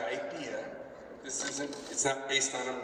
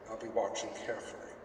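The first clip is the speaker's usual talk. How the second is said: 1 low warning; 3 semitones lower, 6 dB quieter than usual. Acted. Threatening the departing character.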